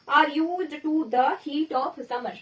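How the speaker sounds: very slow, word by word; slow dictation. Shown as a demonstration. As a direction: read it out slowly for the class. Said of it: "example आया".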